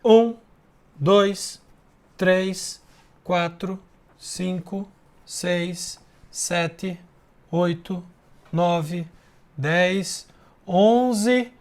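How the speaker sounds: counting aloud one by one; counting syllables. Shown as a demonstration. Teacher counting syllables aloud with students. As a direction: count off each syllable for the class. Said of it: "vamos contar?".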